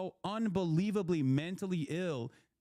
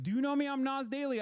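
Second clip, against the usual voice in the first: imitating Nas Daily; 9 semitones higher, faster than usual. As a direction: play the pushy vlogger demanding recognition. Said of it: "He's like".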